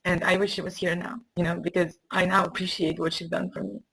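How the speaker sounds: real tears held back, voice catching; fighting tears while speaking; getting emotional. Real, not acted. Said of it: "I'm getting all emotional".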